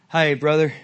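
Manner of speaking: put-on country accent. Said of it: "when I go into the country accent".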